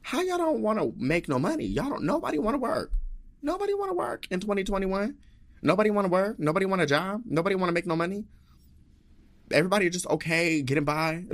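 high-pitched disbelief; pleading, high-voiced exasperation; incredulous rant. Real, not acted. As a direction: push the questions up high, incredulous. Ranting in disbelief at non-workers.

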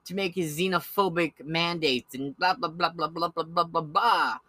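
lightly voiced dismissive pundit; mocking liberal pundit. Mocking the liberal outlet's dismissive tone. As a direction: parody them brushing it off. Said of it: "has in the past said".

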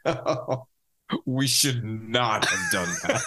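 slow, laughing regret; half laughing. Retold or imitated. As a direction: chuckle through it slowly. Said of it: "half laughing".

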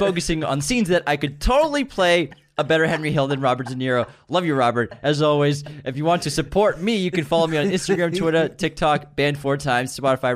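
a light mimic of James's host voice; imitating James. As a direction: parrot his podcast-intro inflection. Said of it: "He's got your inflection".

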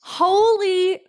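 slow, high, drawn-out shock; stunned disbelief. Real, not acted. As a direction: let it sink in, stretched out. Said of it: "What comes over you in that situation?".

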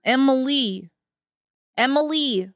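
loud, rough mock Russian accent. Overworked Starbucks worker calling an order, Russian accent. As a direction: call out with a put-on Russian accent. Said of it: "Russian Starbucks workers".

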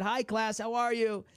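a hint of a second grader saying hello; young self greeting. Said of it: "And I waved, and I said".

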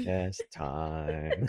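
very low, slow, through a laugh; solemn tone. Pretend. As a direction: drag it out deep and solemn. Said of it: "It needs to be a solemn tone".

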